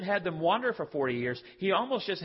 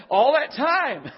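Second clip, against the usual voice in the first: drawn out; 8 semitones higher, 10 dB louder, much slower than usual. Retold or imitated. Emphatic, stretched.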